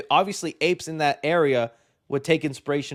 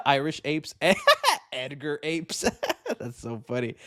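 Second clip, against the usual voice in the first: cracking up mid-sentence; words through giggles; amused laughter; laughing. Real, not acted. Laughing at own ideas.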